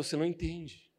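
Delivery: a soft, knowing mystery line; mysterious hush. Retold or imitated. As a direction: say it like a secret you won't explain. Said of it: "Eu falava assim".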